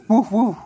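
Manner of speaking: short demonstration woofs; dog woof. Shown as a demonstration. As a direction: show a child how a dog woofs. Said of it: "you want me to show you?".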